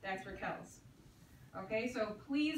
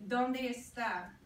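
model phrase; slower than usual. Shown as a demonstration. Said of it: "Número diez".

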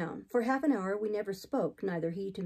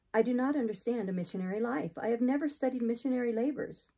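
lightly raised heroine's voice; hint of anxious resistance; objecting Jane; 3 semitones higher than usual. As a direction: protest earnestly that it is beyond you.

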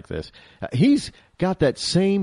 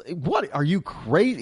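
incredulous retort; 2 semitones higher, 3 dB quieter than usual. Retold or imitated. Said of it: "He's basically telling him".

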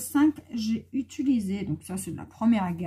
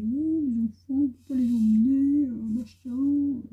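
quoting the school director; 5 semitones higher, 7 dB louder than usual. Retold or imitated. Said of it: "il m'a dit".

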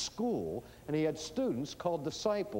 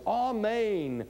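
raised, falling proclamation on each word; solemn preface; 5 semitones higher, 4 dB louder, much slower than usual. Retold or imitated. Preacher quoting Jesus' original words, solemn proclamation. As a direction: intone each word as a weighty opener. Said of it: "what he said was".

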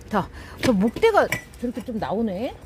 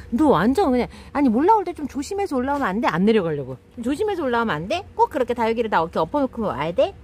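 nagging mom; 2 semitones higher, faster than usual. Real, not acted. Owner nagging her cat for knocking over succulents. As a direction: storm of motherly nagging, quick. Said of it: "엄마 폭풍 잔소리".

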